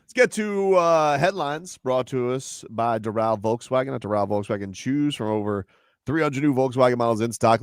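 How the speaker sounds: upbeat sponsor read, slogan punched. Acted. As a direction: read it like a radio sponsor spot.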